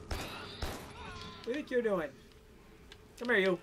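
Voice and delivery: mock menacing voice. Mock voice toward human.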